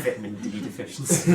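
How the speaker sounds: says it through a big laugh; cracking up mid-joke. Real, not acted.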